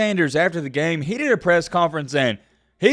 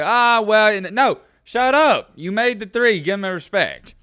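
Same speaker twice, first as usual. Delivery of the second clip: louder, higher flustered backtrack; mock flustered homeboy; 6 semitones higher, 3 dB louder, slower than usual. Homeboy, proven wrong about the three, sputtering. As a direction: sputter then give in. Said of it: "And he's like".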